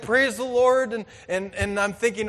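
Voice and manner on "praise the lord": loud, high exultant praise; joyful praise. Retold or imitated. Hunter praising God in the back country, loud and exultant. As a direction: throw it up like a shout of victory. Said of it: "I'm like".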